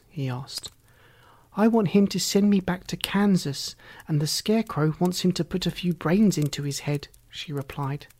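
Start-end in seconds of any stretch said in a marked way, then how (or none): 1.6-7.1 lightly voiced Dorothy. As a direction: lift it lightly into a girl's voice. Dorothy figure speaking.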